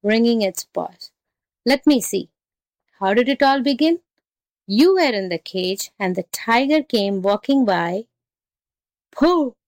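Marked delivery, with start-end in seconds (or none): 1.6-8.1 lilting, lightly voiced confused jackal; muddled jackal. Jackal plays muddled while reasoning aloud. 9.1-9.5 high, scornful exclamation; scoffing tiger. Acted.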